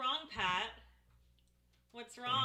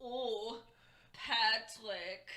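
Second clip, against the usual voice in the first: slow, bad German accent; much slower than usual. Teasing husband with a game-show host in bad German accent. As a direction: lay on a shitty German accent, slowly. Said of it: "my shitty German accent".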